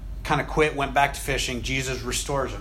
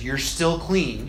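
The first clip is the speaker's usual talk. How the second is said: tender; much slower than usual. Acted. Voicing Jesus tenderly.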